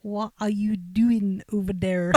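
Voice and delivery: shaky grasp of a Scottish accent; attempted Scottish accent. Shown as a demonstration. Co-host parrots the line back, poor Scottish accent. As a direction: copy a Scottish accent, not quite getting it. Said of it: "I repeat it back".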